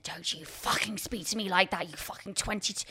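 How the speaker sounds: angry hiss, half-whispered; imitated anger. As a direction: imitate a director's hushed, venomous telling-off. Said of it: "with anger".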